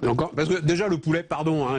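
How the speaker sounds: talking with a mouthful; mouth full. Real, not acted. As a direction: speak through a bite of chicken. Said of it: "je parle la bouche pleine".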